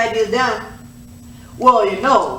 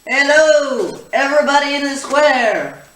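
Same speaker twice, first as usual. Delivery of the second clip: calling out; 2 semitones higher, 4 dB louder than usual. Acted. Calling out to a crowd.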